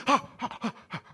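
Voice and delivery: quick puffs of imitated running breath; acted breathless huffing; imitated panting. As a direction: pant like an animal being chased. Imitates the chased animal panting.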